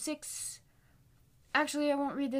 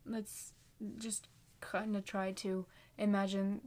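soft whispered invitation to imagine; whispering; 3 semitones lower, 4 dB quieter than usual. Real, not acted. Drawing the listener into the picture, whispered. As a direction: breathe it out as a hushed whisper.

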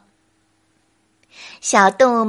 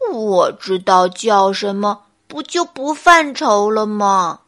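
helpless bear; 3 semitones lower, 4 dB louder than usual. Acted. Bear answers the monkey's question, helplessly. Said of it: "笨熊无奈地说".

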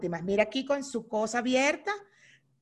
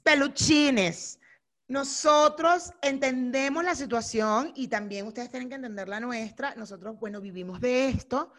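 announcement voice; slower than usual. Pretend. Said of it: "Imitando a mi amigo".

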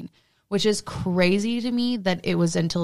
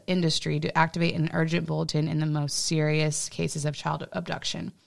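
even, informational script read; reading aloud. Real, not acted. Podcaster reading Amber Alert research to co-host, reading aloud. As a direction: read it out like a prepared report.

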